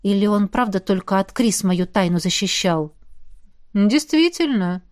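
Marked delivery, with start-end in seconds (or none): 3.7-4.8 thoughtful drawl. Acted. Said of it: "задумчиво протянул Рон".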